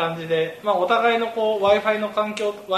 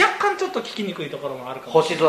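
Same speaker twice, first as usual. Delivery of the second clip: muffled by a face mask; talking with a face mask on; through a face mask. Real, not acted. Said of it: "マスクをしながら収録して".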